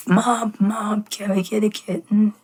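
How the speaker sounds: put-on a kid begging mom sweetly. Child begging mom for kitten.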